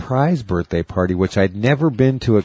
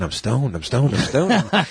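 building louder; 3 semitones higher, slower than usual. Retold or imitated. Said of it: "You kept saying it louder".

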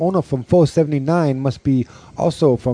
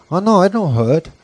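higher mock Asian nail technician; imitated Asian salon worker, pitched up; mock Asian accent; 7 semitones higher than usual. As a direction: brush off a complaint in a put-on Asian accent. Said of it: "they're doing nails to my wife".

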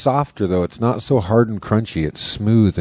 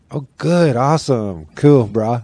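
relieved bro voice; 3 semitones higher, slower than usual. Retold or imitated. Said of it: "started talking like Swartzen again".

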